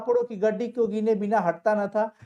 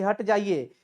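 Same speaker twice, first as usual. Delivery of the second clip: gentle request; slower than usual. Retold or imitated. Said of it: "बड़ी प्यार से वे सब कहते हैं".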